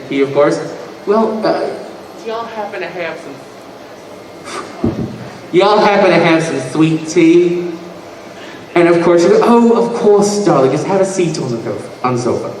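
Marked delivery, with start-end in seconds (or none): 1.1-7.7 put-on hesitant, polite Southern accent; lightly voiced Southern gentleman. Comic imitates his Southern buddy asking for tea, hesitant Southern accent. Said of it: "he's a Southern gentleman". 9.4-12.5 lightly voiced British mother; gracious British hostess. Comic imitates his mother seating a guest, lightly gracious British hostess. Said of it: "the gracious host".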